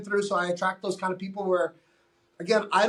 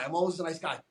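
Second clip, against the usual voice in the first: "always" said lightly, much softer; softer take; 2 semitones lower, 5 dB quieter, faster than usual. Shown as a demonstration. Coach to client, same line said softer and lighter. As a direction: drop the volume, let "always" slide by easily. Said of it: "you put a lot of emphasis".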